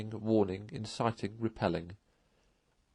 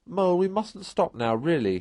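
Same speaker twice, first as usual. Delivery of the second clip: louder, higher call over the distance; calling back; 7 semitones higher, 5 dB louder than usual. Acted. Rat calling back to Mole from far ahead, louder. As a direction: shout back down the road, brisk. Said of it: "he called back".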